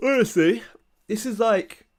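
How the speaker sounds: words stretched by yawn, loud and high. Streamer talking to viewers while feeling the need to stretch, yawning. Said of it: "As soon as I start streaming, I'm yawning".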